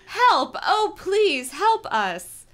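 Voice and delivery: high, loud pleading screams; screaming for help. Acted. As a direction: beg anyone to hear. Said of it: "voice was hoarse from screaming".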